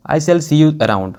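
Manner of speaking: very slow, every word spaced out; slow model sentence. Shown as a demonstration. Teacher giving students the English version, slow and clear. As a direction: say "I shall see you around" slowly and clearly. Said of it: "तो कैसे कहेंगे".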